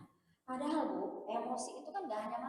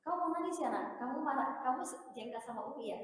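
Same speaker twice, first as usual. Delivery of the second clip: put-on validating child's feelings; 3 dB louder than usual. Shown as a demonstration. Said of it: "apa diakui perasaannya".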